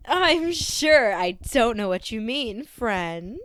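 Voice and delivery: slow, sly line with a laugh held in; lightly voiced robot barely holding back laughter. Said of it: "barely containing a laugh".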